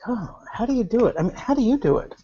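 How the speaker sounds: ordinary talk, nothing marked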